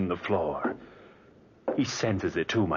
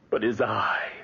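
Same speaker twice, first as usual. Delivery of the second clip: obsessed whisper; 4 semitones higher, slower than usual. Acted. Obsessed over eye.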